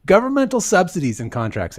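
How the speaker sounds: a hint of Trump voice; hammy dramatic reading. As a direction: read it like a grand speech. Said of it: "Can you do a dramatic reading of this for us?".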